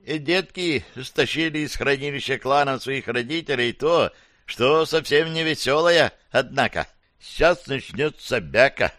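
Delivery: lightly voiced scared little critter; frightened cockroach voice. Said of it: "испуганный голос таракана".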